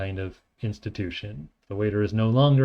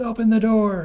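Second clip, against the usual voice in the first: very high, loud, urgent scream; 12 semitones higher, 5 dB louder than usual. Showing how an emergency request sounds: scream. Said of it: "If someone screams".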